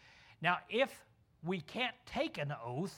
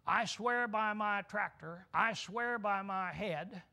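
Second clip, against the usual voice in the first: slow, drawn-out solemn swearing; mock oath-swearing; 2 semitones higher, slower than usual. Preacher mocking a farmer who swears by his things, slow and solemn. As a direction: ham up a man swearing by everything he owns. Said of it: "Instead of saying".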